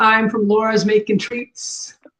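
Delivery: ordinary talk, nothing marked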